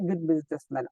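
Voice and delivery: good businessman said very slowly after a break; pause, then say good businessman slowly. Shown as a demonstration. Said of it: "এরপর break".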